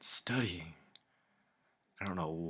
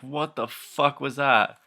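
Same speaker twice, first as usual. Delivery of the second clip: loud, high, slow outburst; reenacted outburst; 6 semitones higher, 7 dB louder, slower than usual. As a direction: blurt it out like he lost it. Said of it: "I wanna reenact it".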